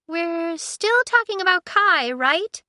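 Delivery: high, slow, questioning; uncertain. Acted. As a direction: ask slowly, unsure. Aiko checking, slow.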